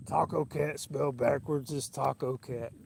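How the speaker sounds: slow, lightly voiced Harry Carey; a hint of Harry Carey, slowed way down; Harry Carey impression. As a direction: drag each word out like the old Cubs announcer. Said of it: "I can't do a good Harry like you".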